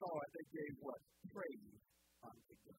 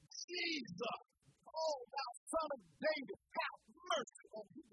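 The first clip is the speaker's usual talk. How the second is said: louder, pleading call to Jesus; crying out loud; 4 semitones higher, 4 dB louder than usual. Acted. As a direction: cry out to him for mercy. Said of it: "this man was yelling".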